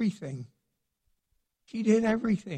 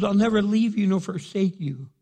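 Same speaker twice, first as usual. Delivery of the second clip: voicing God's promise; 2 semitones higher, 5 dB louder than usual. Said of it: "He goes".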